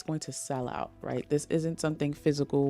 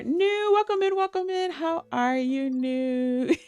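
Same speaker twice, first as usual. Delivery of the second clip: lightly put-on Bridgerton-style British accent, much higher and sing-song; 12 semitones higher, 3 dB louder than usual. Greeting a chat viewer, playful mock Bridgerton British accent. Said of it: "In your Bridgerton accent".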